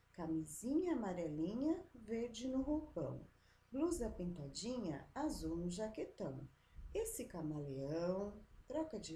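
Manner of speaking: put-on lightly sing-song reading of a children's rhyme; rhythmic rhyme reading for children; reading a poem. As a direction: read it aloud to the class as a poem. Reads a short poem.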